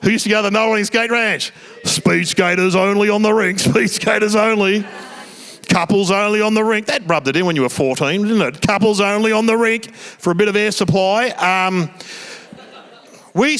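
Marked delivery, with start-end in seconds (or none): 1.8-6.9 imitated announcer with sustained, level pitch; raised, droning mock announcer; rink announcer. Imitating skate rink announcer calls. 8.7-9.9 imitated announcer with sustained, level pitch; raised, droning mock announcer; rink announcer. Imitating skate rink announcer call.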